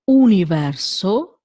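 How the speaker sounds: universo with a pure oo, not you; universo, Italian U. Shown as a demonstration. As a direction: start universo with a rounded oo. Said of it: "is not U".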